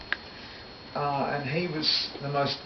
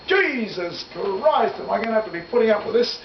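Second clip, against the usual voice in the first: high, loud South African producer, exasperated; a mock-panicked South African producer, pitched up high and calling for RCA; imitating a South African producer yelling at fighting brothers; South African accent; 9 semitones higher, 4 dB louder than usual. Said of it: "In his South African accent".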